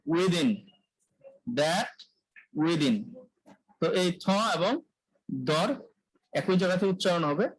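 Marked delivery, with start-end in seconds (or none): 0.1-3.0 within with a voiced th; teacher modelling within with buzzing th; voiced th demo. Shown as a demonstration. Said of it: "যেমন". (within কণ্ঠ কাঁপিয়ে)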